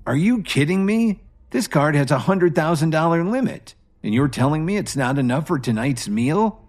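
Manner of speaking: high, outraged disbelief that fades; angry disbelief. Acted. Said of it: "looked at the waiter in disbelief".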